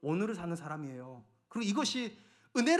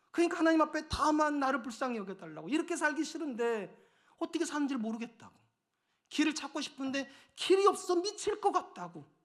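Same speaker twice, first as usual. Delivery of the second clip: high, loud, pleading sermon climb; impassioned preaching; 6 semitones higher, 4 dB louder than usual. Acted. Pastor pleading the tax collector's anguish to the church, impassioned and loud. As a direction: preach it with rising desperation.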